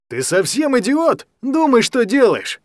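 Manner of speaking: put-on guardian roars at the boy after slapping him; angry shout. A narrator's reading. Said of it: "закричал он".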